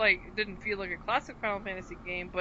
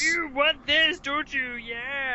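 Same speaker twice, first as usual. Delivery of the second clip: much higher and louder tempting pitch; tempting devilish whisper; 6 semitones higher, 8 dB louder, much slower than usual. Acted. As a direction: tease the buyer like a devil. Mocking AMD ad pitch.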